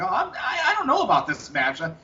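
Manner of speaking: imitating a nervous wrestler with a light Southern twang; lightly voiced Southern accent, nervous and unsure. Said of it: "that Southern twang in his accent when he was getting nervous".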